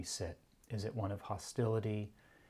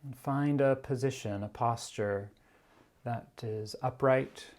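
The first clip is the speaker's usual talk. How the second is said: guided meditation; 2 semitones higher, 3 dB louder than usual. Real, not acted. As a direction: guide the sitters gradually, leaving long silences. Begins leading the meditation.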